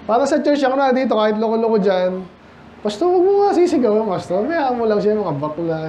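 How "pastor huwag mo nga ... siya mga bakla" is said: mock complaining churchgoer. Mocking lax churchgoers quoted.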